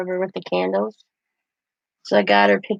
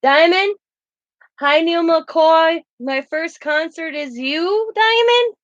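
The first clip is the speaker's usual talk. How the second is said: put-on slow, much higher, small girl voice; mock little girl; 7 semitones higher, slower than usual. Singer echoing the girl's greeting back at her, high and slow. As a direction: parrot her sweetly, drawn out. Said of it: "as in".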